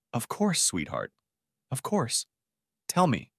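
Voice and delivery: soft, tender reassurance; softly soothing, in short careful phrases; gentle concern. A narrator's reading. Concerned groom soothing upset bride.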